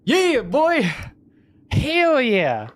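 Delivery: high, hyped-up victory whoop; triumphant cheer. Real, not acted. Streamer cheering his victory to chat, high and triumphant. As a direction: crow over the win like you just scored.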